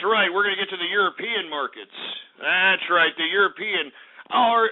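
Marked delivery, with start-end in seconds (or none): 4.3-4.7 put-on slow, higher, half-started English accent; a fake English accent, barely begun; hint of English accent. Radio host briefly mocking the English, in a put-on English accent. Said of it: "I'm not gonna do the English accent today".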